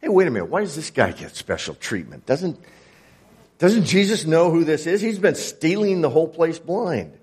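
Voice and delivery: a hint of offended outrage; grumbling crowd. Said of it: "It says they grumbled".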